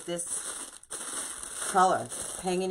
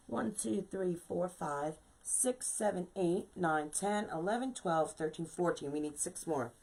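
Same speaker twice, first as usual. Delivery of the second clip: counting to oneself; 7 dB quieter than usual. Real, not acted. Crafter tallying the pieces she cut so far, quietly to herself. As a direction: count quietly, half to yourself.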